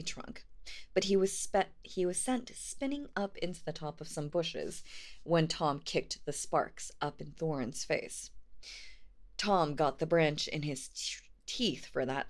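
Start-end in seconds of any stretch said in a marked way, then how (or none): 0.9-4.8 slightly slurred, numb lips; numb mouth. Real, not acted. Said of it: "now my mouth is numb". 9.4-12.3 words slurred by a numb mouth. Real, not acted. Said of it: "now my mouth is numb".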